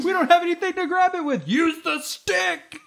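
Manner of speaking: high squeaky character voice; high silly voice. Acted. Rescuers voiced in skit.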